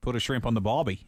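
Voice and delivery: clumsy stab at Australian; badly faked Australian accent; terrible Australian accent. Shown as a demonstration. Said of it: "Now, now that's terrible".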